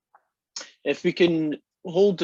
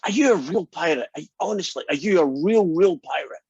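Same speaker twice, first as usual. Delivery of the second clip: put-on excited little boy; 4 semitones higher than usual. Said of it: "jumping up and down with excitement".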